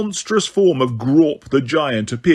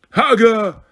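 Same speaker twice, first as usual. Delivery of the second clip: louder, higher insistent giant call; 7 semitones higher, 4 dB louder than usual. A narrator's reading. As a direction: call out again, more insistently. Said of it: "more insistently".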